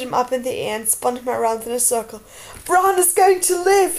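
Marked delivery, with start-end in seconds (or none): 2.6-4.0 high, loud, drawn-out whoop of joy. A narrator's reading. Jon spinning Tyrion around with good news, jubilant whoop. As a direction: shout it out, overjoyed. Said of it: "he whooped".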